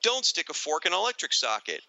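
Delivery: put-on high, bright-eyed kids' PSA voice; mock public service warning to kids; PSA announcer. Hosts mocking a kids' TV PSA, announcer voice. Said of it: "you know".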